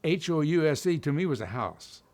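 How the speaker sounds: put-on "house" in his old hillbilly vowel; old Southern pronunciation. Shown as a demonstration. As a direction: say "house" with an untrained Southern diphthong. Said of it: "had to learn how to say".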